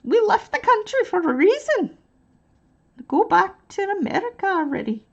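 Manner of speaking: high, loud hammed-up British voice, slipping Scottish; over-the-top fake British accent; mock British accent. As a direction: play a Brit telling a Yank to go home. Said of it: "completely destroyed a British English accent".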